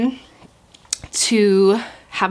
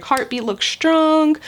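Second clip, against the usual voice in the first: reassuring nurse; 7 semitones higher, much slower than usual. Retold or imitated. Nurse reassures about heartbeat.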